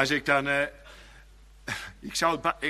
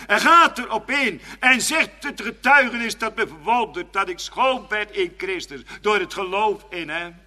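raised, loud preaching voice; fervent preaching; 7 semitones higher, 7 dB louder than usual. Real, not acted. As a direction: preach it out with full conviction. Preek met volle kracht. (vurig, luid gepredikt)

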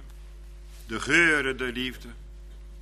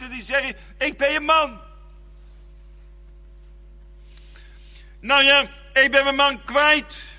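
raised, urgent sermon voice; higher-pitched pleading preacher cadence; impassioned preaching; 8 semitones higher than usual. Acted. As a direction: preach it with rising fervour from the pulpit. Preacher retells the widow's story.

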